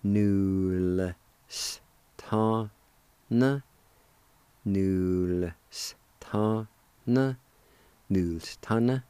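Nul s ton built up into Nulstan, then Nulstana; syllable by syllable. Shown as a demonstration. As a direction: assemble Nulstana from its parts. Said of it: "like this".

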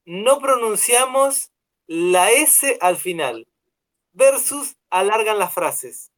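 reading the sign aloud. Retold or imitated. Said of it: "escuchá esta".

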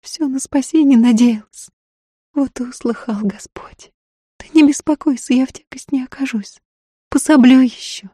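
high, half-whispered, reassuring voice; eager peasant woman. A narrator's reading. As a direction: promise earnestly to be no burden. Woman's figure voice.

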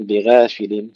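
بغافل with a light gh and fronted a; the mistake: make the gh of بغافل thin; thinned ghayn. Shown as a demonstration. Teacher showing what not to say, light gh in بغافل. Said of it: "نرقق الغين".

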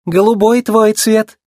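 high, drawn-out squeak; slow squeaked reply; squeaky. A narrator's reading. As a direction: pipe up from the back of the crew. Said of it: "пискнул кто-то из механиков".

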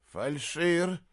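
plain reading voice

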